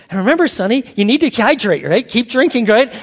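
a grandmother urging him to hydrate, lightly voiced; encouraging grandmother. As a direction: kind old lady cheering on Sonny. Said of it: "super encouraging".

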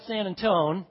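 "San Antone" with the last syllable like "tone"; Texan "San Antone". Retold or imitated. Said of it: "that's how they say it".

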